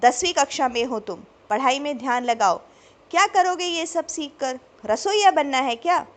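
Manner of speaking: loud scolding father, pitch climbing; furious dad berating his teenage son, loud; angry father. A narrator's reading. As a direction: yell at the son for wasting time. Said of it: "Ravi गुस्से से हर्ष पर बरस पड़े".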